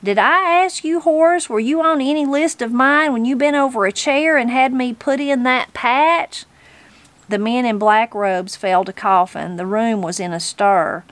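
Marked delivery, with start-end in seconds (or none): 0.0-6.5 high-pitched, insistent granny challenge; indignant. Acted. Granny reminds the judge of past favours, indignant. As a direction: fire questions back with pitch held high.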